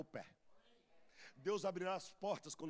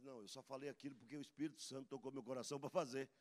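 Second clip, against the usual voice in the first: mock humble reply; 3 semitones lower, 4 dB quieter, faster than usual. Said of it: "Falar assim".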